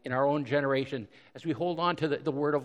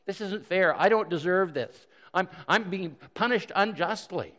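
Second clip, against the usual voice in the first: complaint from the cross; 5 semitones higher than usual. Retold or imitated. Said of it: "Couldn't he have said that on the cross?".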